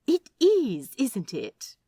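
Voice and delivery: bright eager agreement, jump up on it; delighted he agrees; brightening up. Acted. Aziraphale delighted that Crawley agrees, eager brightening. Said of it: "Aziraphale's whole face brightens".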